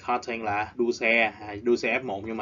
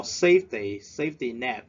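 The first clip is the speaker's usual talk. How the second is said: SAFEty with the first syllable stressed; 4 dB louder than usual. Shown as a demonstration. Teacher drilling vocabulary: first syllable stressed. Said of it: "We stress at the first syllable".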